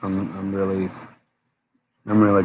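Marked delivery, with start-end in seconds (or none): 0.0-0.9 yawning. Real, not acted. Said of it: "I'm yawning, guys".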